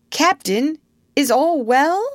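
high, tentative question; timid. A narrator's reading. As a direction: check cautiously on the captain. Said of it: "they asked timidly".

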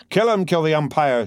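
high angry crowd shout. Acted. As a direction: yell it from the stands. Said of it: "shouted someone on the stand".

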